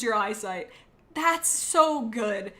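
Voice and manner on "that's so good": savoring. Real, not acted. Savoring the sugary icing.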